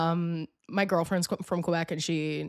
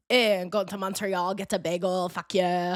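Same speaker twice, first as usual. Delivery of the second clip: put-on French Canadian accent.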